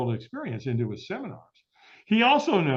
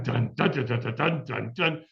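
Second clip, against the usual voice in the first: imitating drums; 3 semitones lower than usual. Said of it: "now the ambiance is".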